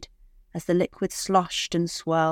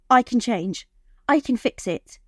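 higher, pleading again with rising panic; more desperate plea; 6 semitones higher than usual. Acted. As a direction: beg him, more desperate now. Wife pleads harder.

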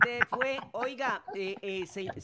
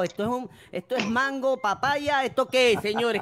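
mock scolding; 4 semitones higher, 4 dB louder, slower than usual. Co-host scolds playful pair.

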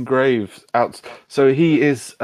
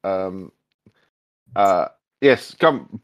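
put-on shouting for the boy; slower than usual. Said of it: "he shouts".

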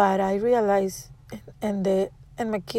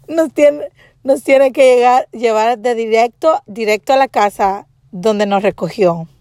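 retold anger; 2 semitones higher, 4 dB louder than usual. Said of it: "I was so angry".

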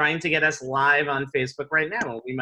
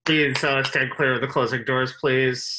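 mumbled subway intercom. Pretend. Subway announcement parody.

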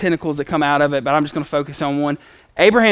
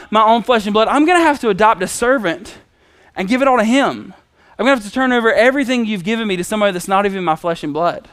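higher, aggrieved complaint to God; hurried, frustrated venting in retelling; angry Abram; 5 semitones higher, faster than usual. Retold or imitated. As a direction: protest the unfairness, acting upset. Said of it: "he's angry with God".

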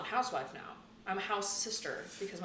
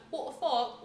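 higher-pitched British "fuck"; mock British accent; 6 semitones higher, slower than usual. Shown as a demonstration. Host arguing parents wouldn't notice swearing, British accent. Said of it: "it's just the British accent".

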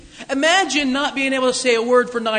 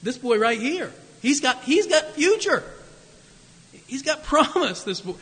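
proud father; 4 semitones higher than usual. Pretend. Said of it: "I would have shown him".

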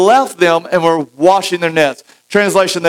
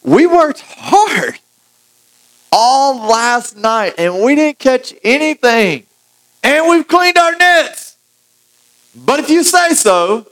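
higher, slowly drawn-out tired fisherman; weary Simon; 7 semitones higher, slower than usual. Acted. Simon wearily answering Jesus, higher and slow. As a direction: sigh it out like a worn-out fisherman after a long night. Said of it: "Simon replied".

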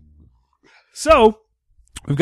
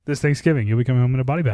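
weak spooky voice; 4 semitones lower, much faster than usual. Shown as a demonstration. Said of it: "you didn't do it as good".

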